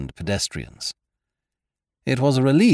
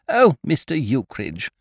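higher-pitched, tremulous lady's exclamation; fluttering cry; 6 semitones higher than usual. A narrator's reading. Hostess thrilled by news of Leonard, a fluttering cry. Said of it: "she cried".

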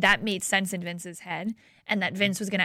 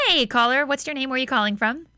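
calling out to a caller; 6 semitones higher, 4 dB louder than usual. Real, not acted. Host calling to phone caller.

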